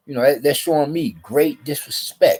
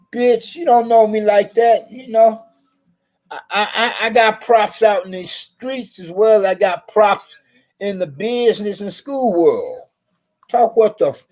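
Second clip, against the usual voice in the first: much higher, louder retold tirade; mock furious outburst; 9 semitones higher, 4 dB louder than usual. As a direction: blast her, pitched way up. Retold confrontation.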